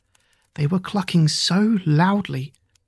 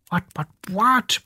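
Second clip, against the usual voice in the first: clucking scream; 4 semitones higher than usual. Acted. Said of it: "Alice screamed".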